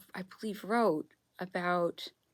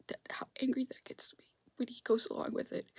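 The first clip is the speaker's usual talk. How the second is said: whisper; 4 semitones higher, 8 dB quieter than usual. Real, not acted. Upset rant whispered.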